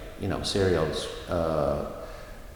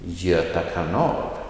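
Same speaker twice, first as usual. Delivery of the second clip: kanal lifted on its last syllable; stress on kanal. Shown as a demonstration. Teacher models a place name, stress on kanal. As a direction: lean on the second word, kanal. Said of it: "second part will always get the emphasis".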